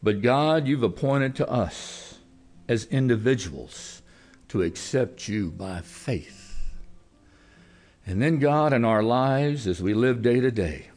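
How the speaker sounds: earnest closing prayer to God. Acted. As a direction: pray over the congregation.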